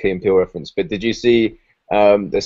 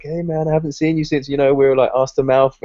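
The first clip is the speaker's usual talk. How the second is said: chummy reminiscing; 5 semitones higher than usual. Retold or imitated. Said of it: "He's like".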